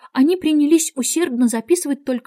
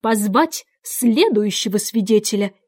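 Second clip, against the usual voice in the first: calling out. Acted. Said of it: "он тихо прибавил".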